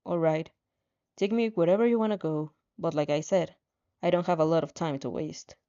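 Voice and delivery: low, cool reluctant guy; aloof young man, weary. Acted. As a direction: sound tired and indifferent. Voices Shoto, reluctant.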